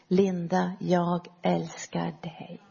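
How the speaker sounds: Jesus speaking gently, very slow and hushed; a soft loving whisper of a voice, drawn out slowly; tender, slow, soft. Retold or imitated. Jesus' voice heard inside.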